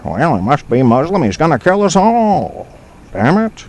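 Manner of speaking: rising, panicky mock voice of a paranoid bigot. Host voices a listener's suspicion of Muslims, mock panic. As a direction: ham up a fearful guess about a stranger. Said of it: "What's your suspicion?".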